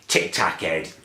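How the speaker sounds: mild mock-taunting imitation of his coworker; mocking sister. Coworker taunting him in front of a client, mock sneer. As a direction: lightly sneer it back as she said it. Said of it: "she says".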